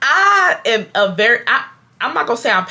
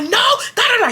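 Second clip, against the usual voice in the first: squealed retelling of a screaming match; mock screaming; 13 semitones higher than usual. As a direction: imitate yelling over someone. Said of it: "we are screaming at each other".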